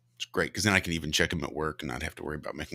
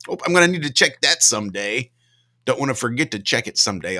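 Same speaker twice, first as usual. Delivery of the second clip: mock breezy promise; 5 semitones higher, 6 dB louder than usual. Mocking own procrastination.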